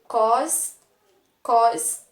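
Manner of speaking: "Cos, cos" loud, with the S hissed; teacher repeats the syllable "cos" to show the S; strong S. Shown as a demonstration. Teacher loudly sounding out "cos" for the class. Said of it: "Vamos pronunciar pra ver se tem um som forte".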